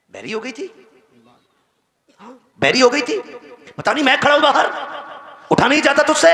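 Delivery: high, loud yell of a rude son at his mother. Retold or imitated. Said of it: "तो हम उस पर चढ़ जाते हैं". (माँ पर चिल्लाता बदतमीज़ बेटा)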